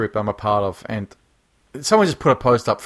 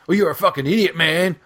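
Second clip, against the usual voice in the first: imagined indignant fan, slightly higher; mock outrage; 4 semitones higher than usual. Comic imitating a fan insulted over a band, mock indignant. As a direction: act affronted over someone's music taste.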